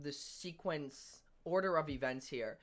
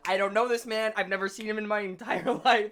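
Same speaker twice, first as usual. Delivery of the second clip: mock disavowal; 4 semitones higher, 6 dB louder than usual. Acts out disowning his friend instantly.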